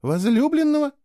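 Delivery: wife stunned by his accusation, exclaiming in surprise; surprised exclamation. A narrator's reading. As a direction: she can't believe what he's implying. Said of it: "удивлённо воскликнула Кейла".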